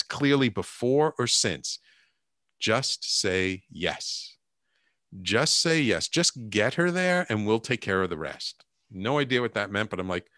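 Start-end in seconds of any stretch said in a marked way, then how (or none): 2.6-8.6 inner voice. Retold or imitated. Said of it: "this little voice in the back of my head".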